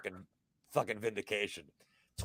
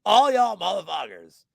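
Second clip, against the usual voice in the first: mock Southern twang on "All y'all motherfuckers"; a hint of a Southern drawl, lightly done; 4 semitones higher, 4 dB louder than usual. Shown as a demonstration. Host mocking all the doubters in a light Southern drawl. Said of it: "so I can do the Southern drawl".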